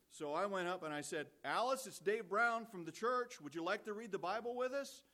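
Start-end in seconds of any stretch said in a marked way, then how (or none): 1.4-5.0 put-on big boy voice. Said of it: "use your big boy voice".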